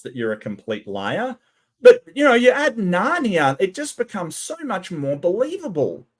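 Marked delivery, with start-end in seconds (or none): 1.8-6.1 sarcasm. Real, not acted. Sarcastic mock belief.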